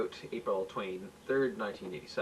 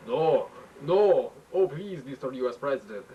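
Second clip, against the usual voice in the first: pleading in fear; 2 semitones higher, 5 dB louder than usual. Acted. Sweating prime minister begging the president, panicked plea. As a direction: beg him to let go. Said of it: "said the sweating Borsky".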